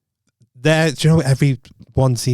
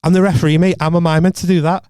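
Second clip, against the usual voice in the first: retold indignant protest; 5 semitones higher, 4 dB louder than usual. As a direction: imitate an affronted referee, higher and louder. Acts the referee arguing back.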